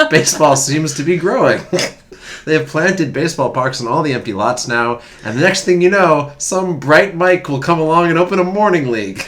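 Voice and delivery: put-on loud, high old-time sports writer read; old-timey newsreader. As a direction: ham up the 1910s paper. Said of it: "it's gonna come out throughout this whole reading".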